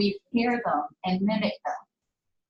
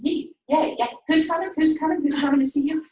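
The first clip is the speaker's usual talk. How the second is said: fast mom prompting; 5 semitones higher, 3 dB louder than usual. Retold or imitated. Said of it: "she's saying it really fast".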